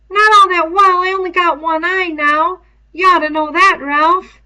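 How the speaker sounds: put-on high, loud boy's voice, a little hurt; a schoolboy protesting, pitched high; Piggy's voice. A narrator's reading. Piggy answers Ralph.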